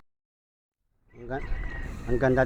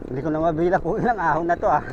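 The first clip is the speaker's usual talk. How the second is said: laughing; 4 semitones higher, faster than usual. Real, not acted. Laughing about too many climbs.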